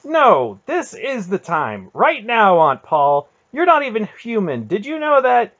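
very high, loud furious tirade; runaway anger. A narrator's reading. Garion turning on his aunt, runaway fury. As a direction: let the words rush out in uncontrolled anger. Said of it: "his anger had finally run away with him".

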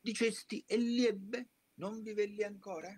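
high, anguished questioning cry; startled cry. Retold or imitated. Father asking Dante if his son lives, in high alarm. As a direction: read it as the father's sudden alarm. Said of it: "gridò".

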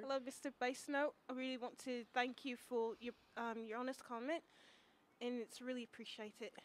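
lightly put-on British accent; a playful attempt at British. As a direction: say it politely in a mock British accent. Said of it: "I'll say it in British, British accent".

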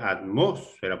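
"atmósfera" with weight on MÓS; stressed syllable. Shown as a demonstration. Teacher giving an example of tónicas, stressed syllable. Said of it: "las que llevan mayor fuerza de voz".

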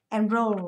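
"Enroll" stressed on ROLL; stress on second syllable. Shown as a demonstration. Teacher models word stress for class, "Enroll" stressed on second syllable. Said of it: "âm tiết số hai nhá".

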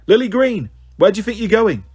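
high, carrying call down the hall; stern teacher calling a pupil back; booming teacher call. A narrator's reading. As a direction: boom it out like a headmistress. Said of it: "one of those booming voices".

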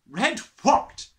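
loud, high snap; barked question. Acted. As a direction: bark it back. Trunchbull barking question.

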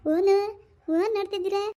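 high cooing question. Real, not acted. Asking the baby what they are looking at, baby talk.

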